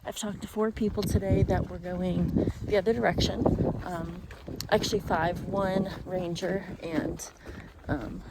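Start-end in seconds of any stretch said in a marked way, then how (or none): 0.0-3.4 loud over roaring wind; shouting over wind. Real, not acted. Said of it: "I don't know if you can hear me over this wind". 4.7-7.3 shouting over wind. Real, not acted. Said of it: "I don't know if you can hear me over this wind".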